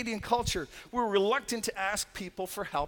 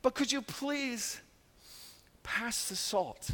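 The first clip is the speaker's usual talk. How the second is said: overly timid request; 4 semitones higher than usual. Retold or imitated. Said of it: "some of us have that all over us".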